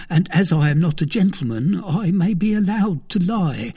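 a jittery valet blurting out news; frightened servant Planchet. A narrator's reading. Planchet voiced by narrator.

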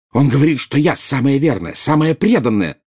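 high, insistent boasting; bristling pride. A narrator's reading. Bellatrix boasting of her loyalty to Snape, bristling. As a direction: defend your standing, stung. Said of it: "ощетинилась Белатриса".

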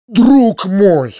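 high, loud outburst; joyful exclamation. A narrator's reading. Uncle exclaiming to his nephew, high loud outburst. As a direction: burst out warmly to a friend. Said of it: "вскричал дядя".

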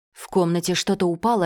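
plain reading voice

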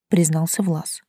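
plain reading voice

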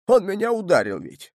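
put-on old man outraged, tattling to his wife; stressing ОН, shocked and aggrieved; indignant. A narrator's reading. Grandfather complains to grandma.

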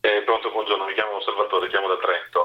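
echoey speakerphone call; phoning in on speakerphone with echo. Real, not acted. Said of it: "la sento un po' con eco".

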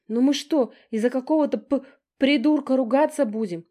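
high, loud breathless wailing apology; chirping lament. A narrator's reading. Younger sister apologising to everyone, chirping lament. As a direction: babble your apologies. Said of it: "зачирикала, запричитала Стежка".

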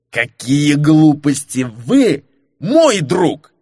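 put-on drunken shout. Marquis cries out drunkenly to the informant. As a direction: drawl it out like a sloppy drunk. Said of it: "пьяно выкрикнул Фернан".

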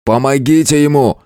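a hint of a barked order. Hero ordering the soldiers to help the wounded man, lightly barked. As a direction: snap the command at the men. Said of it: "рявкнул на воинов".

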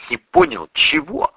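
high, bewildered little question; faltering babble. A narrator's reading. Narrator asks the priest what he missed, high and faltering. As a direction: babble it feebly, pitched right up. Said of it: "пролепетал я".

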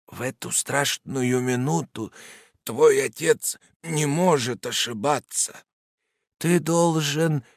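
fading from firm to failing, near tears; growing weaker. A narrator's reading. Dying father's last charge to his son, fading into a sob. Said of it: "всё слабее и слабее".

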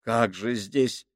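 slow, hushed creeping horror; eerie voice. A narrator's reading. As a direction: let the dread crawl slowly out. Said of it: "произнёс Крайчик жутким голосом".

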